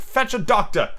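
high-pitched command; ordering. Acted. Peter sending Slightly for a doctor, ordering. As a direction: issue it as an urgent errand. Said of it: "he ordered".

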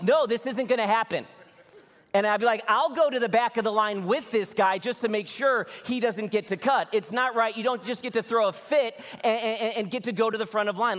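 high, loud, indignant protest; imagined angry outburst. Pretend. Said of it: "I feel this swell of anger bubbling up in me".

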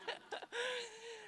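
a teary, choked laugh, high and soft; laughing through tears. Real, not acted. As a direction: laugh to hold back crying. Crying while speaking of God.

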